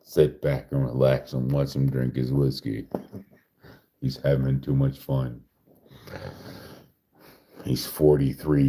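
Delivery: calm, even documentary narration; steady narrator reading. Pretend. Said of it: "broke character".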